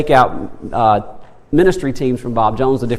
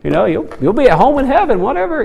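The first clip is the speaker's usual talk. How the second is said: joking reply; 6 semitones higher, faster than usual. Retold or imitated. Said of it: "And I said".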